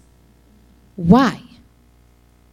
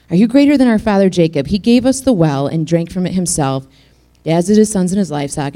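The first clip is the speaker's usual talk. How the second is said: challenging. Retold or imitated. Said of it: "she's questioning Jesus".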